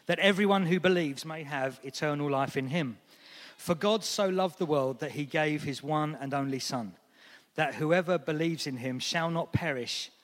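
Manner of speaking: measured, careful Bible reading; formal scripture reading voice. Acted. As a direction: read the passage steadily to the congregation. Reads scripture passage aloud.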